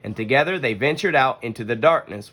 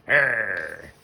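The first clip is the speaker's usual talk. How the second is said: mock scary growl; 4 semitones lower than usual. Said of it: "making a scary face at the cubs".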